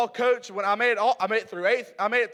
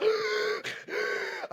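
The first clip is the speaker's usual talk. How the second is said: gasp; 10 semitones higher, 7 dB quieter than usual. Retold or imitated. Winded after the tackle.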